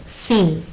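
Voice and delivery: "sin" isolated and held; stressed syllable alone. Shown as a demonstration. Teacher naming the strongest syllable, "sin" stressed and held. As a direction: give "sin" its own weighted beat. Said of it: "La sílaba que suena más fuerte".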